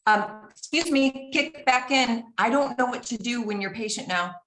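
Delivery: mock-indignant partner; mocking husband voice. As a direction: play the baffled husband, a bit snide.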